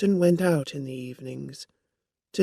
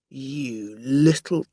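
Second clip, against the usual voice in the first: angry; 3 dB louder, slower than usual. A narrator's reading. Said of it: "he said angrily".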